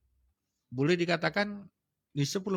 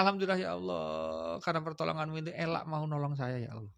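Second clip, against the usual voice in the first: low, soft prayerful thanks; 3 dB quieter than usual. Shown as a demonstration. Teacher demonstrating to listeners how to thank God, low soft prayer. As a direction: lower and softer, like a quiet prayer. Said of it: "Dan bilang".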